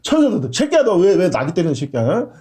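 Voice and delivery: a mild mock rebuke from an angel; angel scolding. Angel rebuking the prophet, mild mock scolding. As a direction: chew him out like a rough angel. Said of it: "그때 천사가 딱 나타나더니".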